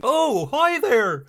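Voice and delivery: high, slow, drawn-out greeting; original Wit. Retold or imitated. Imitating Wit from Odyssey, drawn-out hearty hello. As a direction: stretch the greeting out in a lifted voice. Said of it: "this is like the original Wit here".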